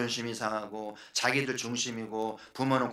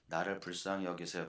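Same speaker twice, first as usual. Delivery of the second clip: soft, meek plea, much softer; 조용한 부탁; 7 semitones lower, 10 dB quieter than usual. Shown as a demonstration. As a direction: ask quietly and timidly. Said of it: "요 외침이 이 바디메오가". (조용히 힘없이 부탁하듯)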